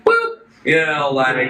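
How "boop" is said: very high, loud playful boop. Retold or imitated. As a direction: poke someone with a squeaky boop. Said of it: "she's like".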